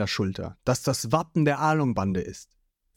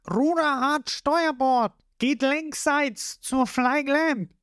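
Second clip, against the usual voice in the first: Lysop commanding; 11 semitones higher, slower than usual. A narrator's reading.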